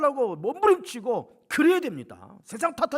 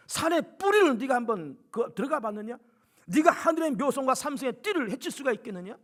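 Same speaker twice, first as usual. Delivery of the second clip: God rebuking Job. Retold or imitated. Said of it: "하나님께서 욥을 뻥 하고 쳐버립니다. 치면서".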